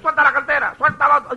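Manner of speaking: high, spluttering, as if being strangled; choking victim. Acted. Man being strangled for his wallet, choking splutter. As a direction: stammer it out like someone throttled. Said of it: "Es como que lo están ahorcando".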